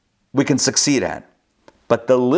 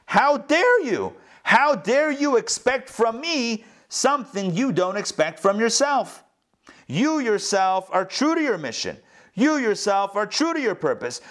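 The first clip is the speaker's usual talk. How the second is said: indignant scolding; 8 semitones higher than usual. Pretend. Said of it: "Tell your inner evil inclination".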